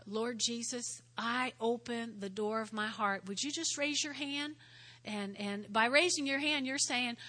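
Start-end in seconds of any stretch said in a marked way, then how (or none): 0.1-3.3 soft, sincere prayer voice; sinner's prayer. Acted. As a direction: pray it gently for them. Models prayer.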